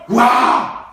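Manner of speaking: a loud amazed wow, lightly acted; amazed cheer. Preacher acting out the crowd's amazed cheer at the miracle. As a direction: cry out in mock wonder at the miracle.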